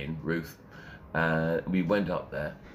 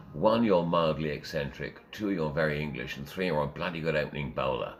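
measured, lightly imitated old Etonian accent. Boss lists his three reasons, lightly old Etonian. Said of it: "in his best old Etonian voice".

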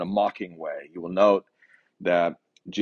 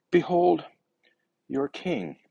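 higher-pitched mock proclamation, drawn out with pauses; slightly theatrical, pitched-up derision; derisive; 6 semitones higher, slower than usual. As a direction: present him with mild derision. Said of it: "being derisive here".

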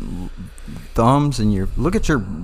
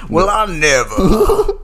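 high, drawn-out scandalised gasp of words; hammed-up affronted propriety; mock genteel outrage; 8 semitones higher, much slower than usual. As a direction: act grandly offended, stretching every word. Playing the offended gentleman.

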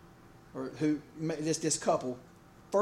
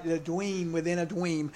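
lisping clergyman impression. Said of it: "the guy who can't enunciate his words clearly".

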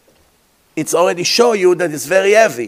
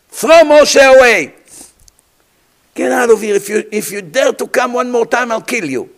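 raging royal shout, much higher and louder; Pharaoh's fury; 6 semitones higher, 5 dB louder than usual. Acted. Pharaoh ordering Moshe thrown out: furious shout. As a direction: hurl the order like an enraged king.

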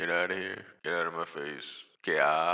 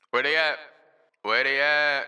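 loud, higher, calling out; shouted hype ad-lib; 5 semitones higher, 7 dB louder than usual. Acted. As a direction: yell it like hyping a crowd. Hype ad-libs on the mic.

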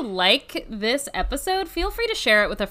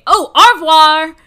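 hammed-up French goodbye, louder; mock French; 4 semitones higher, 11 dB louder than usual. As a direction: belt out a cartoon French farewell. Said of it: "I wish you guys could see her face".

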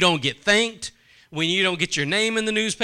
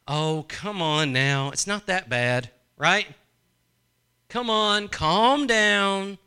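put-on soothing a child; slower than usual. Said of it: "What do you tell them?".

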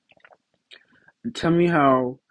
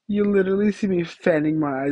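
ordinary talk, nothing marked

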